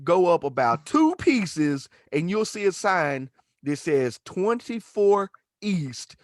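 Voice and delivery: slow, easy drawn-out directions; laid-back directions. Retold or imitated. Stranger with a forty giving directions, slow and easy. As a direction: talk him through it calmly.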